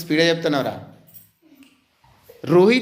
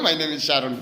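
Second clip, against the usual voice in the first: laughing echo; 5 semitones lower, much slower than usual. Real, not acted. Teacher echoes Sharon, laughing.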